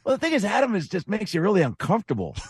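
high, throaty GM voice; Jerry Dipoto impression. Host quoting Dipoto's jab about him, high and throaty. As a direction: lift it up and squeeze it back in the throat. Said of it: "He goes, Adam, he goes".

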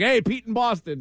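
thrown-off-guard caller. Retold or imitated. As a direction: imitate a caller parroting the intro. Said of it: "sometimes they get thrown off guard".

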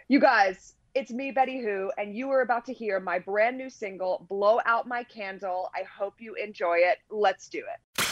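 lightly put-on radio host intro. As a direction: introduce your single like a show host. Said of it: "Let me get my host voice on".

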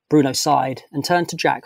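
plain reading voice

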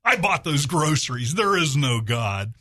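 triumphant "Ha" then emphatic retort; spring it on her, slowing for the last line; acted gloating neighbor; mock gotcha. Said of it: "jumps out from behind a bush and says".

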